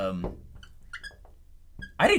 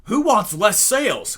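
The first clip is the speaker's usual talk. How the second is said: dismissive; 6 semitones higher, 6 dB louder, slower than usual. Retold or imitated. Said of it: "I'd be like".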